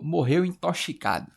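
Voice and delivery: "intoxicado" with the x said as sh; common mispronunciation. Retold or imitated. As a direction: say "intoxicado" as "intochicado". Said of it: "alguém que já falou". ("intoxicado" com som de ch)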